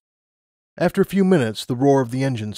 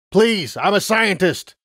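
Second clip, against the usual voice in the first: higher, slow desperate plea; pleading father; 8 semitones higher, 4 dB louder, slower than usual. Acted. Father begging the Griffin pilot for passage, pleading. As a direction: beg through the fence.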